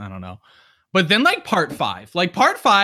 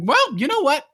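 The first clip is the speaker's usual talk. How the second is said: high, scoffing well-you-know-what; mock dismissive reply; sarcastic retort; 5 semitones higher than usual. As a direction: brush it off with sarcasm. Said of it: "And I was like".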